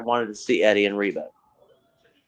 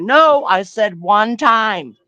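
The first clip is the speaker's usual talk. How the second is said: slow, deliberate dog voice, a little higher and louder; voicing the dog; 6 semitones higher, 4 dB louder, much slower than usual. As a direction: speak for the dog, warning sternly.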